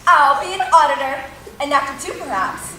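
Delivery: mischievous scoffing. Acted. Puck scoffs at amateur players.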